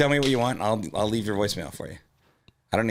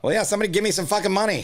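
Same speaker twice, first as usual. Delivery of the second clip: a touch of a gruff army voice, higher; army guy; 11 semitones higher, 3 dB louder, faster than usual. Acted. Comic doing an army guy for the voiceover game. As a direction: bark it like a drill sergeant, lightly. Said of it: "it's like an army thing".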